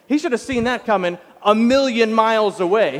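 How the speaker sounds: ordinary delivery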